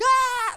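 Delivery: short, very high, loud yelp; re-enacted scream of panic; startled scream. Son caught by his dad, startled scream. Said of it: "And I'm just like".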